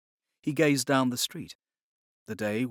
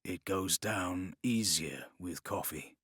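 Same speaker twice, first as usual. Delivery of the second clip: smiling; 5 semitones lower, 6 dB quieter, slower than usual. Acted.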